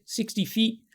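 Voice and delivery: high answering tree voice; high chirp of a riddle answer; talking trees. Acted. Two trees answer the riddle, high-pitched.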